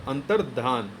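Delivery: low अंतर्धान with a full "dhaa"; correct form. Shown as a demonstration. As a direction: give अंतर्धान a whole dh, no y. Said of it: "यहाँ पे पूरा धा हो जाएगा".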